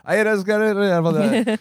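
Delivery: high, slow garbled Scottish order; mock impenetrable Scots; thick Scottish accent. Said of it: "the guy orders it again".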